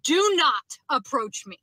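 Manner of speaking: firm, slow mock yell at a stranger; retold yell. Woman telling a stranger in a parking lot, firm slow yell. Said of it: "I literally yelled at him".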